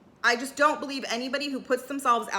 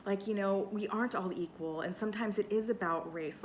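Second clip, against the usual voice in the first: calmly; 4 semitones lower, 7 dB quieter than usual. Retold or imitated. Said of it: "calmly say".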